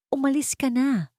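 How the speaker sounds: curt order. Acted. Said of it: "utos ni Marco".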